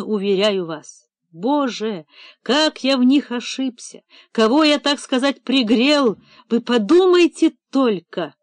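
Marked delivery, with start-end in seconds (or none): 1.3-8.3 theatrical despair. Acted. Director clutches his head, theatrical lament. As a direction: play the betrayed patron, overdone. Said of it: "Он театрально схватился за голову".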